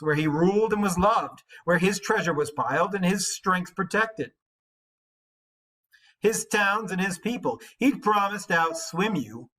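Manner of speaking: jealous warrior taunting a guest; scornful challenge. Acted. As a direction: goad him with a bully's swagger. Reading Unferth's speech continued.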